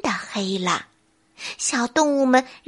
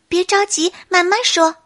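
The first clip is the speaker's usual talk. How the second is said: comforting; 7 semitones higher, 3 dB louder than usual. Acted. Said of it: "小鹿安慰他".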